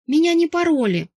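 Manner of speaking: high, loud tearful wail; sobbing wail. Acted. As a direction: wail it through sobs. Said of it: "всхлипывая, провыла Каринка". (плачущий вой, громко и высоко)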